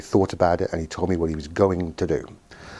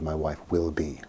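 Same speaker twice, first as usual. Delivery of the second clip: "will" given deliberate weight; stress on "will"; 5 dB quieter than usual. Retold or imitated. Therapist quotes client's certainty, stress on "will". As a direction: lean gently on "will" in "My wife will be". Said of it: "not would be".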